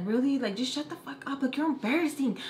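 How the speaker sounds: high-pitched exasperated telling-off, no real shout; mock scolding yell. Cousin scolds the embarrassing little girl, exasperated mock yell. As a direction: imitate a fed-up cousin snapping at a kid. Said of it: "Like, yelling at her".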